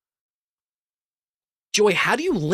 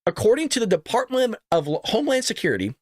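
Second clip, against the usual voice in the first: slurred speech; 4 semitones higher than usual. Real, not acted. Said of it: "kinda slurred that out".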